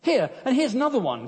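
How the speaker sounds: high wailing dismay. Acted. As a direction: wail it in despair. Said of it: "Corrie wailed".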